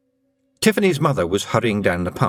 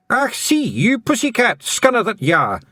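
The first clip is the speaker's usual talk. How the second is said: Scottish feagle yell; 12 semitones higher than usual. Acted. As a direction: yell it at the cat in broad Scottish. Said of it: "he yelled".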